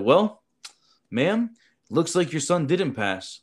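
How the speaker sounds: retold faux-polite verdict, stretched out slowly; mock regretful. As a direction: deliver the bad news with teasing slowness. Breaking test failure to mother.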